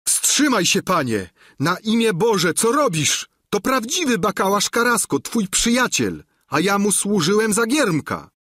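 very high, loud desperate scream; screaming at the top of his lungs. Acted. The squire screams at the knight to stop: high desperate scream. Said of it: "wrzasnął w niebogłosy".

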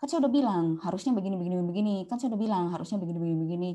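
fast, lecturing nag; nagging. Retold or imitated. Caregiver nagging the elder, fast and preachy. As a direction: rattle off an I-told-you-so.

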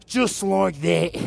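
put-on English accent, drawn out; light mock-English gym-coach accent; England accent. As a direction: play at an English accent, stretching the words. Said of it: "That's my England accent".

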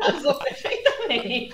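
laughing, high pitched. Real, not acted. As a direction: say it through laughter. Laughing at the fitting remark.

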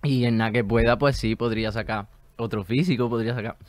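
chewing gum while talking; mouth full. Real, not acted. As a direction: talk round a mouthful of gum. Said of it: "Me está llenando la boca de saliva".

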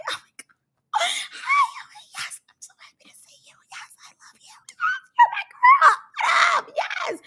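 squealing, very high mock delight; fake excited greeting. Reactor imitating the cast greeting each other, shrieky fake joy. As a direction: squeal it like a hammed-up happy reunion. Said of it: "they all be playing so fake".

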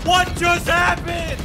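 high, slow disbelieving question; stunned. Real, not acted. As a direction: ask it in total disbelief. Stunned after dying in game.

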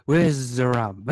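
slow drawling pirate captain. Pretend. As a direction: stretch it out like a drunk pirate. Echoes the quote slowly.

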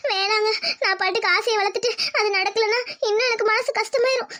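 refusing through sobs; tearful. Acted. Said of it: "அழுகாதன்னு சொன்னேன்".

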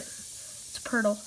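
slow hushed whisper. Real, not acted. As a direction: whisper it in wonder. Excited discovery said under breath.

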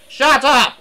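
loud, high cross shout; angry bark. A narrator's reading. Cross engine woken by hissing, barking loudly. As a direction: bark it at full volume. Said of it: "he barked".

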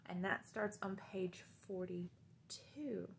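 hushed aside to the class; whisper. Real, not acted. Teacher whispers page number to kids. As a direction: drop to a whisper.

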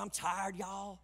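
lightly put-on Southern accent; Southern twang, letting "y'all" drop off; real Southern. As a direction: play up a weary Southern accent. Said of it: "I'll sound real Southern".

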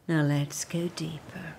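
hushed whisper. Acted. Deepening the meditation, whispered.

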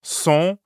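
"Sont" with a nasal vowel, n not sounded. Shown as a demonstration. Teacher explains the sound of "Sont", nasal vowel. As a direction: draw out nasal "Sont", rhyming with French bon. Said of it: "is nasal".

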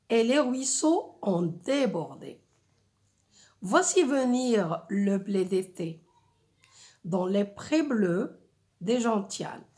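measured, carefully articulated verse recitation; poetic reading. Shown as a demonstration. French teacher reads a spring poem to first-years, poetic reading. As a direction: recite line by line, pausing after each verse. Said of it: "il faut bien prononcer et bien articuler".

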